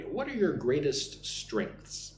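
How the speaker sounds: slow, clear teacher model for repeating; slow listen-and-repeat model; slow model sentence. Shown as a demonstration. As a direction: say it slowly so students can copy. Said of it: "Listen and repeat after me".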